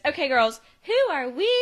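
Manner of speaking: high, peppy team-leader call; rally the girls with a rising cheer; Jo's pep talk. Retold or imitated. Mom rallying unimpressed girls, peppy and high. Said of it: "And she goes".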